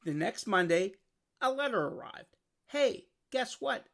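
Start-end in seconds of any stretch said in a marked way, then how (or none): 2.7-3.9 slow, high excited call; excited shout. Acted. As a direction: call out the news eagerly. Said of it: "shouted Arthur".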